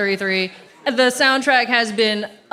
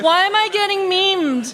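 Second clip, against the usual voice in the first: amused protest; 8 semitones higher than usual. Real, not acted. Getting roasted.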